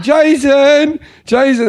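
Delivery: high-pitched call for help; mock holler down the street; retold calling out. Storyteller re-enacts calling Jason to step in, high holler.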